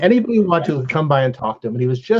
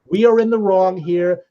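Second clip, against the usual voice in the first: put-on gentle teacher to kids; 2 semitones higher than usual. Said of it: "decides to make this a teachable moment".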